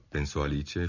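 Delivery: ordinary delivery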